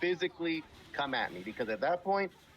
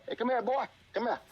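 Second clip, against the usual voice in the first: higher, condescending mock call; demeaning tone; 8 semitones higher than usual. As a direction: call him over like he's beneath you. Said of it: "using an offensive tone like that".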